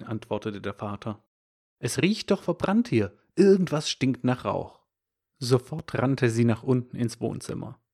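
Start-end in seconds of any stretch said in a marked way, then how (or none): 1.8-4.8 higher, urgent alarm at the smell of smoke; alarmed mother. Acted. Mother alerting the father to smoke, alarmed. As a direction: sound the alarm, pitched up.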